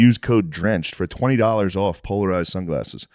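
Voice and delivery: podcast host's sponsor read. Acted. Host pitching Shady Rays shades to listeners, ad read. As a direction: read out the sponsor copy with steady sales polish.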